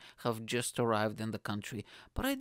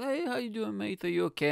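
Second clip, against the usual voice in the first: higher-pitched, casual friendly hello; friendly greeting; 9 semitones higher than usual. Retold or imitated. Guy greeting a girl at the party, friendly. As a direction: re-enact a friendly, harmless opener. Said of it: "I'm trying to be friendly".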